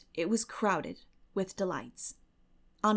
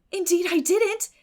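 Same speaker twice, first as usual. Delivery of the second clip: glow with delight at the compliment; radiantly; 10 semitones higher, 7 dB louder than usual. A narrator's reading. Anne answers Miss Barry's compliment, beaming and high. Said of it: "said Anne radiantly".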